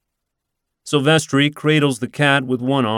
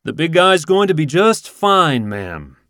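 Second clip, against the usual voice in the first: raised, higher call from up the tree; yelling; 6 semitones higher, 4 dB louder than usual. Acted. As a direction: call down to reassure her. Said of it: "yells Silvestri".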